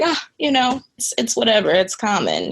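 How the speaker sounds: high, offhand shrug of a voice; dismissive. Retold or imitated. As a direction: toss it off as no big deal. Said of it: "the doctor just being so dismissive".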